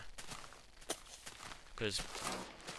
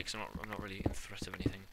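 quiet aside; 6 dB quieter, faster than usual. Real, not acted. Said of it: "to make it more dramatic".

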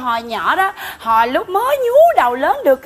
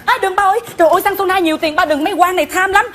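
pleading; 5 semitones higher, faster than usual. Acted. Daughter begs father to stop.

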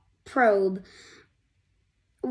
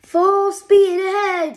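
high, loud command; Hubby ordering the ship, loud high shout; eager shout; 8 semitones higher, 7 dB louder than usual. Acted. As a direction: call it out full speed. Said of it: "said Hubby".

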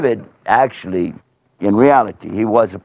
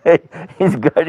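plain reading voice

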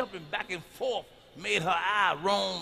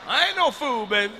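cocky boast; 5 semitones higher, 8 dB louder than usual. Acted. Boasting punchline, loud high.

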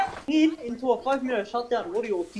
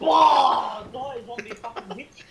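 shouting; slower than usual. Real, not acted. Yelling at zombies in game.

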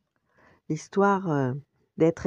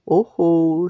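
worried uh-oh; 3 semitones higher, 8 dB louder than usual. A narrator's reading. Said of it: "se dit-il".

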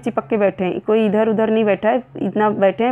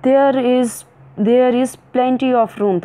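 indignant; 3 semitones higher, much slower than usual. Shown as a demonstration. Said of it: "said Alice indignantly".

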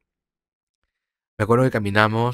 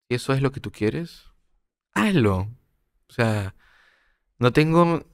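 mother's tearful words. Retold or imitated. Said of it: "me mira a los ojos llorando y me dice". (la madre le dice entre lágrimas, en voz baja y contenida)

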